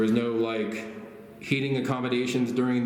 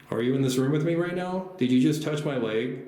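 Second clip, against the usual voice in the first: high, raised call into the dark; 6 semitones higher than usual. Real, not acted. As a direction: call out to the unseen spirit. Calling out to a spirit.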